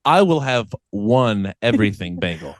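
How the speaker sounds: deliberate, over-enunciated American English; over-American accent. Acted. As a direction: order in exaggeratedly careful American. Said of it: "making it way more American".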